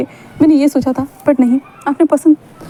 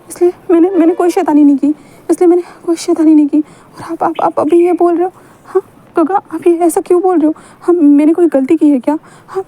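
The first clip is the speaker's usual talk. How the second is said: higher, pleading voice close to tears; upset pleading; 4 semitones higher than usual. Acted. Wing pleading with Wang Ji after rejection, upset and high. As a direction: beg him, voice rising in distress.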